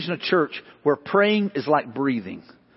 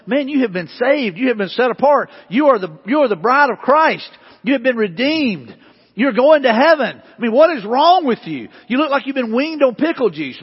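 higher, emphatic preacher's plea; exasperated exhortation; 4 semitones higher than usual. Acted. Preacher confronting sour-faced Christians, exasperated exhortation. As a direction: drive each point home in disbelief.

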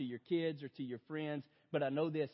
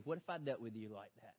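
soft, low and gentle questioning; a hushed, lower rebuke full of grace; God gently questioning the father at night; quiet voice of God; 4 semitones lower, 5 dB quieter than usual. Retold or imitated. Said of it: "I felt God say to me".

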